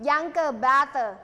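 slow teacher model of "younger brother"; model word. Shown as a demonstration. Teacher modelling new vocabulary for students, slow and clear. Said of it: "น้องชายใช่ไหมคะ".

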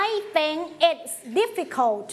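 I think it's difficult said slowly and clearly; slow it down for the class to echo; slow choral model. Shown as a demonstration. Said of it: "say it together". (ครูอ่าน I think it's difficult ช้าๆ ให้นักเรียนพูดตาม)

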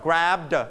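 "grab the" with a full, separate "duh"; teacher's drill of "grab the", ending spelled out as "duh"; exaggerated d ending. Shown as a demonstration. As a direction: sound out the d in "grab the" as its own beat. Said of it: "เอาลองเสียง the ดังๆก่อน".

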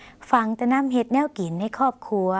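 slow, clear repeat of ฟังแต่น้ำเฮ็ดแนวกินให้ครอบครัว; slow Lao demo. Shown as a demonstration. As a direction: repeat it slowly for learners. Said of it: "ลองออกเสียงภาษาลาว". (อ่านซ้ำช้าๆ ให้ผู้ชมพูดตาม)

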